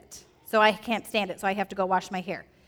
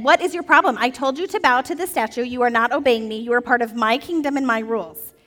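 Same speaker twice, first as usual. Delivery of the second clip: angry king; 4 dB louder than usual. Acted. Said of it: "King Nebuchadnezzar went to".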